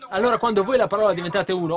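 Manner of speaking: high, loud, rapid preaching; fervent preaching. Real, not acted. Preacher urging the congregation to become one with the word, fervent. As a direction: preach it with urgent momentum.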